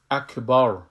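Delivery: اکبر ending on a heavy ra; full final ra. Shown as a demonstration.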